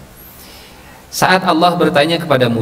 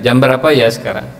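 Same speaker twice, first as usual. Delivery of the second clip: pointed boss question. Acted. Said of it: "Tapi sambil lihat".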